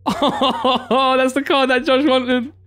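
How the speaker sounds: laughing. Real, not acted. Realises the card was wanted.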